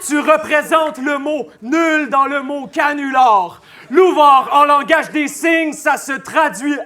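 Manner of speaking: loud, hard-hit battle delivery; forceful punchline. Acted. Battle rapper mocking Louvard before the crowd, loud and forceful. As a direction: drive the insult up to a shout on the name.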